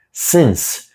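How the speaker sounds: slow, deliberate contrast of "Since" and "science"; careful contrast. Shown as a demonstration. Teacher slowly contrasting since and science for pronunciation. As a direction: draw the two words apart slowly. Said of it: "um detalhe importante de pronúncia".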